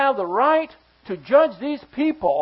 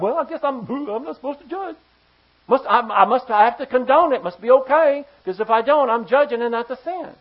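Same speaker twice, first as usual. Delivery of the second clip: flustered believer; 5 dB louder than usual. Acted. Flustered Christian voiced after shot down.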